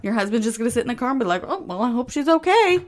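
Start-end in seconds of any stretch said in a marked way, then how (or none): 1.5-2.8 mock husband. Mimicking the passive husband.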